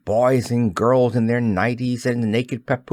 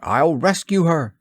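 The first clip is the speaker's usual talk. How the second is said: eager cry; 6 semitones higher than usual. A narrator's reading. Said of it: "he cried".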